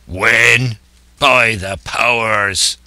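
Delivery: slow pirate exclamation; cried out. Acted. Silver throwing the question back, crying out. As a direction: stretch it out as an indignant old sea-dog. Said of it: "cried Silver".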